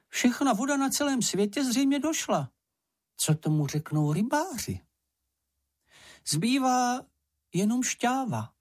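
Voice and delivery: high Sniff voice, a touch crestfallen; a small animal's high voice reporting bad news; high squeaky voice with a hint of gloom; dejected little creature. A narrator's reading. Sniff reports, ears drooping.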